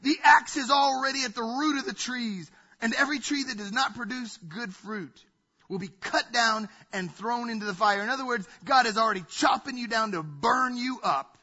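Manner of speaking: loud, hammering fire-and-brimstone preaching; fire and brimstone opening. Shown as a demonstration. Preacher thundering a harsh opening line at the congregation, booming. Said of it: "how would you feel if I started my sermon that way".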